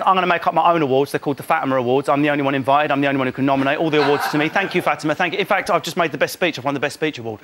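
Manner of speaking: lightly voiced self-crowning diva; mock Fatima.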